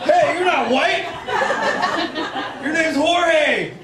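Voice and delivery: mock indignant call across the crowd; accusing call-out. Acted calling out of odd one.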